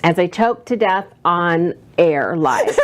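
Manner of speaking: laughing through the words. Real, not acted. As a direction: giggle while saying it. Choking fit on live show.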